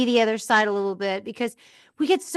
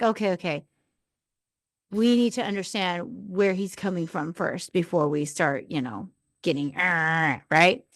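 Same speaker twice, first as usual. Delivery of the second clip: calming self-talk; 3 semitones lower than usual. Retold or imitated. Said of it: "So I calm myself down".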